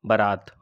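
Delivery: बारात spoken low and falling as the right answer; correct spelling said. Shown as a demonstration. Teacher tells exam students the correct form, बारात said low and final. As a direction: say बारात slowly and clearly with a low falling close. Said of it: "शुद्ध शब्द क्या है?".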